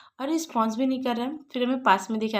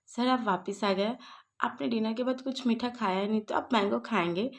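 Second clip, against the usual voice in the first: lovingly. Retold or imitated. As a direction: gently offer the mango, mildly retold. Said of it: "वो प्यार से बोलता है". (प्यार से, हल्के मीठे लहजे में)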